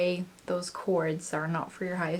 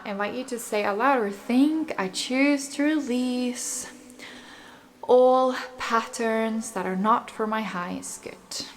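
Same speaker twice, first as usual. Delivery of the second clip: guided meditation. Acted. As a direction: calmly lead the listener's breathing. Guides affirmations and breathing.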